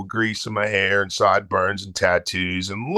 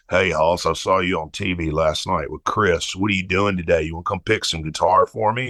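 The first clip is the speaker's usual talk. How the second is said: lightly voiced country singer, lower pitch; a country star; 4 semitones lower than usual. Country star phoning a younger musician, lightly imitated. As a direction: drop it low for an imitated caller. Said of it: "this voice comes over".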